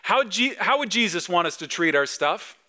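acted backyard call to kids. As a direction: call the children over with an eager question. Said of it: "In the backyard".

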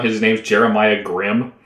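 choppy connection, words breaking up; buffering stutter. Real, not acted. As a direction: speak like a glitchy call. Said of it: "You cut out for a second there".

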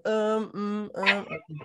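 halting filler sounds; stuttering. Real, not acted. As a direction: trip over the words. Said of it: "it's like I'm stuttering".

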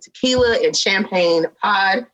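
slightly out of breath. Real, not acted. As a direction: talk a bit winded. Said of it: "I sound like I'm out of breath".

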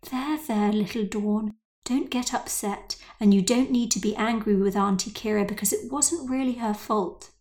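a touch of false sweetness, lightly played; understated sugary coaxing; mock sweet. Mother soothes angry Dawn over the phone, mildly sweet. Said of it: "changed her tone to something sweeter".

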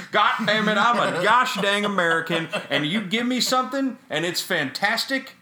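loud, high redneck rant; ranting gosh dang patriot; hammed-up American rant.

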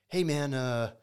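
put-on a light, half-hearted try at Kai's accent; imitating Kai's accent. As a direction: retell Kai's greeting in a loose take on his accent. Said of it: "I hope I'm not butchering his accent".

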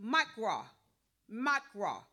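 MAKRA said as MAK-raw, two syllables; Hebrew pronunciation. Shown as a demonstration. Preacher teaching the congregation a Hebrew word, MAKRA pronounced MAK-raw. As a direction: sound out MAKRA carefully, falling at the end. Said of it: "but it is pronounced".

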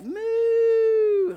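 very high tiny moo; squeaky little kid moo; child mooing. Retold or imitated. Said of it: "you can hear her in the back".

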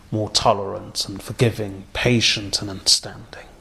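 soft, almost whispered appeal; hushed plea. Real, not acted. Preacher urging listeners to be patient, hushed whisper. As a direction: draw them in gently with a breathy plea.

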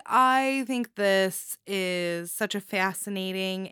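slow, accidental hint of Michigan; slight Michigan accent. Real, not acted. Reviewer praising a story slips into a slight Michigan accent. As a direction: let a little Midwestern Michigan twang slip in. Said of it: "got a Michigan accent there".

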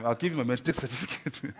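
breaking into a laugh mid-sentence. Real, not acted. Preacher joking about his only certificate, laughing. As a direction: let a laugh slip in before the last word.

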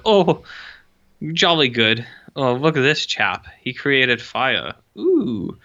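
lightly voiced jolly old British gent; old British God. God watching cavemen, a mild plummy old British voice. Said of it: "God is an old British man".

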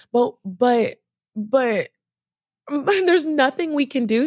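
helpless laughing plea. Retold or imitated.

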